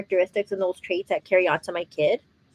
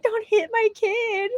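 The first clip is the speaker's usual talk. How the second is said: mock stern warning; 12 semitones higher, slower than usual. Imagined warning to partner.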